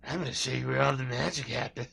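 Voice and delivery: quick, put-on mimicry of his line; mocking impression. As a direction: parrot him in a silly voice. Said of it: "that's what he told Blind Billy".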